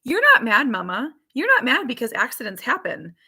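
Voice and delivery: lightly voiced three-year-old; little daughter's voice. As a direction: mimic a child reassuring her mother. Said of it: "this is what she says".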